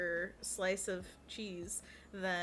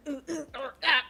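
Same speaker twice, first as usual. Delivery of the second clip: laughing monkey hoots; 6 semitones higher, 10 dB louder than usual. Pretend.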